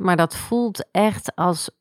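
slow, choked-up phrase; holding back tears. Real, not acted. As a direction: close to crying, drawn out. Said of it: "zonder dat ik weer ga huilen".

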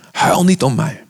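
steady and measured, stress on "niet"; calm repeat. Acted. Preacher rereading Jesus's words to the women, calmer and measured. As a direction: say it plainly this time, stressing "niet".

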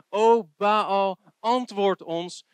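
loud, high call, the last words slow; pleading cry to Baal. Acted. Preacher voicing Baal's priests, calling out to Baal. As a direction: cry out to an idol that never answers.

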